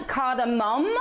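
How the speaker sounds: cardamom ending in a fuller "-mom"; cardamom, final syllable unreduced, tune left rising; alternative pronunciation. Shown as a demonstration. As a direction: say cardamom with a clear vowel in the last syllable, "CAR-da-mom". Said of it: "correct to call it cardamom".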